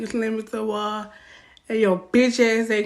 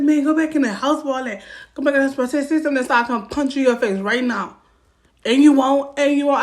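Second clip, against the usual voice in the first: loud, raised threat; imitating his threat; 3 semitones higher, 4 dB louder than usual. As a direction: play him squaring up. Boyfriend threatening her.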